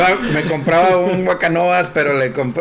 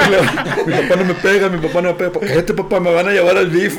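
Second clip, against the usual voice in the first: higher-pitched imitation of a young son; niño apenado; 4 semitones higher than usual. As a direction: protest as a child to the onlookers. Imita a su hijo desmintiéndolo. (voz imitada de niño)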